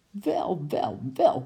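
mild annoyed call; angry exclamation. Acted. Uncle calls out crossly at the penguin, mildly angry. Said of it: "riep oom Nijltje nijdig".

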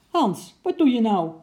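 loud, high startled cry to her husband; startled call. A narrator's reading. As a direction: shriek it at him in shock. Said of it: "riep ze naar haar man". (geschrokken, luid uitgeroepen)

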